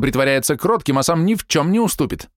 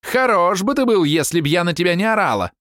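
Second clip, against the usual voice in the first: high, stabbing angry shouts; wife berating her husband before guests; furious wife; 10 semitones higher than usual. A narrator's reading. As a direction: cut him down with every word. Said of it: "голос колол, словно ржавый клинок".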